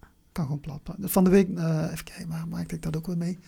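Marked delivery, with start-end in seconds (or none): 0.0-1.1 zachte gefluisterde herhaling; fluisterend. Real, not acted. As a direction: fluister het nog eens voor jezelf. Herhaalt haar eigen woorden zachtjes. (zacht fluisterend herhaald)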